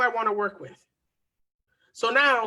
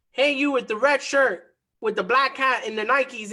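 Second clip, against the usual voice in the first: louder call to someone in a crowd; yelling out; 2 semitones higher, 3 dB louder than usual. Retold or imitated. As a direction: call out over Times Square noise. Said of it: "I yell out".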